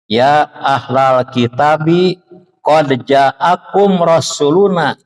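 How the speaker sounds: slow, measured Arabic verse recitation; Quran recitation. Acted. Preacher quoting Al-Maidah to the congregation, slow recitation. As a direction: recite the verse slowly, drawing out the syllables.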